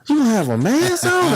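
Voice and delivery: high, incredulous mock question; lightly voiced sarcastic sergeant; mocking disbelief. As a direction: scoff at him in disbelief. Guard mocks his answer.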